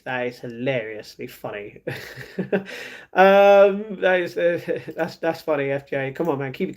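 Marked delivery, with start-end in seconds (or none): 1.9-2.9 amused chuckle. Real, not acted. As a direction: chuckle quietly to yourself. Laughs at viewer's joke.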